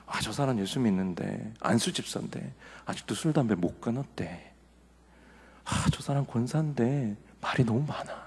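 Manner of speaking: low, hushed mock gossiping; imitated judgmental gossip. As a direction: act out passing judgment under your breath. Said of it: "평가하고 비판하고".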